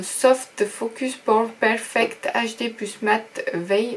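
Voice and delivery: slow, careful French-accented English; French speaker's laboured English accent; English accent attempt. Real, not acted. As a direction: sound out the English product name slowly in a French accent. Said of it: "Vous voyez mon accent anglais".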